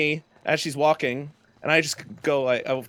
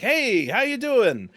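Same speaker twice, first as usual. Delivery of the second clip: put-on drunk greeting; 7 semitones higher, 4 dB louder, much slower than usual. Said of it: "I walked up to him like".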